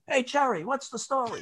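hoog, spottend geroepen; high mocking call. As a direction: roep hem pesterig en hoog toe. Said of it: "People would go".

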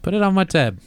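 high, generous British dad act; good-humoured British dad. Retold or imitated. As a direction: imitate dad grandly treating everyone. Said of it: "if he's in a good mood".

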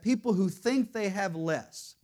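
"think" leaned on within the phrase; stress on think. Real, not acted. Preacher qualifying a claim to congregation, stress on "think". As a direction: put the weight on "think". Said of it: "I emphasize that word think".

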